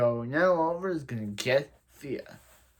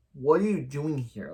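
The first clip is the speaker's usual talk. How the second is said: mildly surprised "What are you doing here?" with a falling end; surprised recognition. Retold or imitated. Sarah greeting someone she knows, lightly surprised. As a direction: sound like you know who it is, a touch surprised. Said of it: "her line of tone is like".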